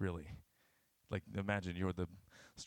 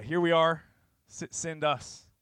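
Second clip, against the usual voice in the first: high, loud answer; raised-voice offering of oneself; eager volunteering; 8 semitones higher, 11 dB louder than usual. Acted. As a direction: call back your readiness, drawing out the last words. Congregation's answer acted as eager call.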